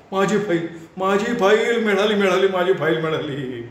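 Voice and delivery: wild-eyed with found treasure; ecstatic shriek. A narrator's reading. Clerk shrieking with joy at finding his file. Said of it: "डोळे फिरवत किंचाळला".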